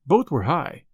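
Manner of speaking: ordinary delivery, nothing marked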